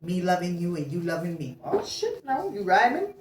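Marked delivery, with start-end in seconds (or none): 1.6-3.2 high yelp of surprise breaking into a laugh; surprised laugh. Real, not acted. Reader startled by the message rhyming, laughing. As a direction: caught off guard and cracking up.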